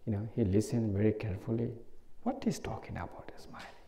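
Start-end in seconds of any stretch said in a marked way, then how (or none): 2.2-3.8 whispering, puzzled about the smile; a confused little whisper to himself. Retold or imitated. Listener puzzled whisper in retold class.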